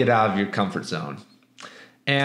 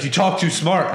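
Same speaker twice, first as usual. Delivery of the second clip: a touch higher, lightly imitating the redneck; mock accusation; 5 semitones higher than usual. Redneck accusing the teller of talking smart, lightly imitated. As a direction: throw it at him like an accusation.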